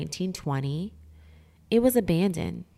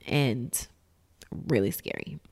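spooky low voice; 4 semitones lower, 6 dB quieter than usual. Acted. Lowered voice on scary.

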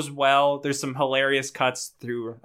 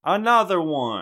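loud, high DJ catchphrase; radio DJ voice; 6 semitones higher, 5 dB louder than usual. Retold or imitated. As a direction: shout it like a hype DJ. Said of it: "D J Carly says".

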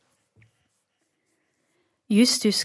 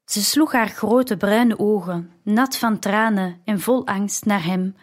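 ordinary delivery, nothing marked

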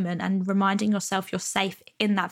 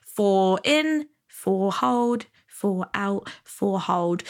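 counting breaths; much slower than usual. Shown as a demonstration. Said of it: "box breathing which is like".

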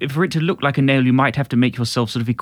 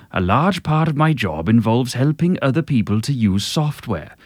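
A famous singer speaking. Retold or imitated. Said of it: "I'll do it as a famous singer speaking".

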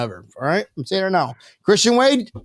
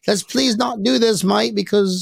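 lightly put-on Australian accent, a bit higher; mock Australian accent; 3 semitones higher, slower than usual. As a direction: plead politely in a faked Australian accent. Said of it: "That's Australian again".

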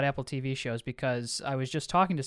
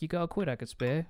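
put-on soft, lightly done British dad accent; bad British accent; 7 dB quieter than usual. Retelling a British dad asking for money, bad British accent. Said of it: "I was doing a bad impression".

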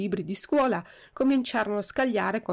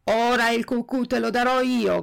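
loud, bullying threat; threatening shout; 3 semitones higher, 5 dB louder than usual. Acted. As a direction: yell it at the puppet like a threat. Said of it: "gridò il più ardito".

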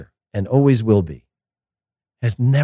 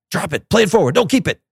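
mock coach; 9 semitones higher than usual. Mimicking coach barking instructions.

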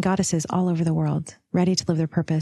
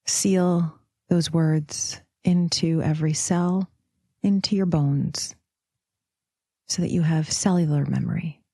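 calm, spacious visualization delivery; guided meditation. Acted. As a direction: guide them gently through the images, unhurried.

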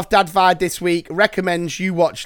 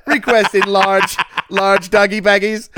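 police radio call; 3 semitones higher, 4 dB louder than usual. Pretend. Radio cop bit continues.

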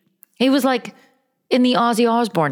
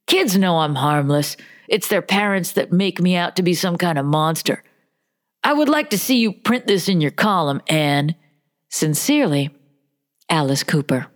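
measured, slightly lower letter-reading voice; reading a letter aloud; 3 semitones lower than usual. Acted. Host reading a rock singer's letter aloud, measured read-out.

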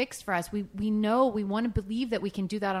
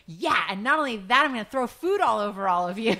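put-on playful baby voice broken by laughter; laughing mock baby voice; 3 semitones higher, 6 dB louder than usual. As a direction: giggle through it as the baby. Voicing baby's attitude, laughing.

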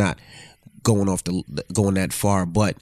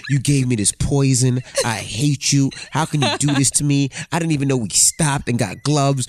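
mock bawling. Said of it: "And then you started bawling".

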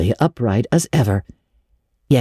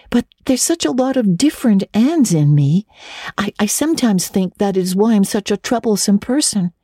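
put-on higher, eager girl's voice; Anne; 7 semitones higher than usual. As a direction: lift into young Anne, dreamy. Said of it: "she told Diana".

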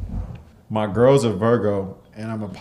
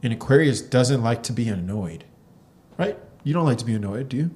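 fortune teller. Pretend. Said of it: "I'm a fortune teller".

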